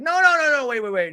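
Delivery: high, loud start tumbling into pleading; frantic interruption. Retold or imitated. Tamara on the ropes interrupts Jen, high mock shout. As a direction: burst in, imitating a panicked objector.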